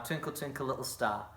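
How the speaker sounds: quiet, low rhyme quote; soft nursery rhyme. Shown as a demonstration. Teacher softly quotes a nursery rhyme to the children. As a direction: hush into the old nursery rhyme. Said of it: "from that good old nursery rhyme".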